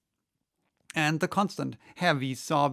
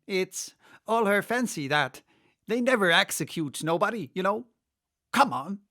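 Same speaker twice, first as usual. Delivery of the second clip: higher, louder, rough-mannered griffin; brash griffin; 6 semitones higher, 5 dB louder than usual. Acted. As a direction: brush off the queen's fancy with a scoff. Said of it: "said the griffin".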